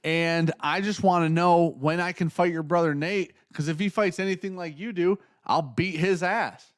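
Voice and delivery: a lightly voiced brash reporter; cocky reporter. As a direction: play a smug reporter picking a fight. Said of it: "some guy goes".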